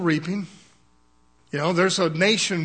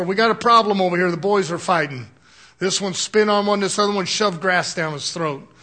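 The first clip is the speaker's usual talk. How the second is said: fast, louder report of a fight; alarmed church sisters; 4 dB louder than usual. Retold or imitated. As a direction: rush it out like a panicked phone call. Sisters phoning the pastor, alarmed.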